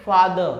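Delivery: फादर without the r, fad-uh; British pronunciation. Shown as a demonstration. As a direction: say फादर dropping the final r. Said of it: "clear?".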